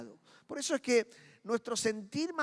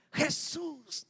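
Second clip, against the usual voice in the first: disciples' cry; 6 semitones higher than usual. Acted. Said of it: "Los muchachos gritaron".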